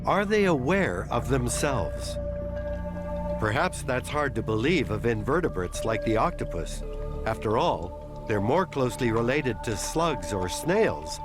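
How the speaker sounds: calm measured documentary narration; nature documentary. A narrator's reading. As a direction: narrate it like a wildlife film. Documentary narration of octopus intelligence.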